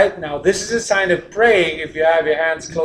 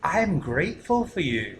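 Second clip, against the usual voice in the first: grateful; 8 dB quieter than usual. Shown as a demonstration. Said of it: "But if I say".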